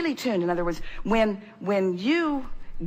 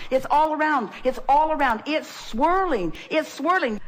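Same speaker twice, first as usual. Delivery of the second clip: higher, eager questions, each answered with a punchy reply; excited; 5 semitones higher than usual. Acted. Teacher urging the audience that everything is around them, excited. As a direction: pitch each offer up like a thrilled salesman.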